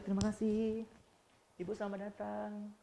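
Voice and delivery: friendly shop greeting. Retold or imitated. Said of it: "terima kasih itu pasti baik".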